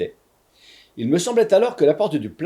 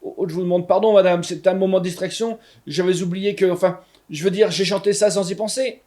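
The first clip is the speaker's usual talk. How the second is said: higher, stammering excuse; flustered apology; 5 semitones higher than usual. Acted. Narrator caught out, apologizing to the witch in a fluster. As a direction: fumble for an excuse. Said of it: "j'essaye de m'excuser".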